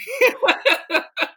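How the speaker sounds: loud, high burst of laughter. Real, not acted. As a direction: crack up out loud, high-pitched. Laughing at the mercury remark.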